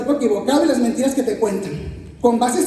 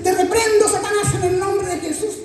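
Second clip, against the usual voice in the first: mock rebuke of Satan; 5 semitones higher than usual. Mock deliverance prayer rebuke.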